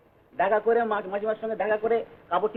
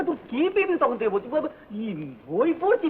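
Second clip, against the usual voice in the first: high-pitched, stumbling protest; exasperated retort; 6 semitones higher than usual. Acted. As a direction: protest indignantly, tripping over your words. Son snaps back at mother.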